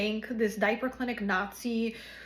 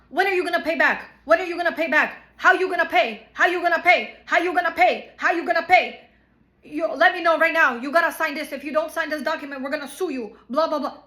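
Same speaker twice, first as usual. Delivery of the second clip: higher, louder mock badgering, repeating the demand; pushy yelling lawyer; 4 semitones higher, 5 dB louder than usual. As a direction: hammer the same question like a nagging lawyer. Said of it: "pressuring us and being nasty".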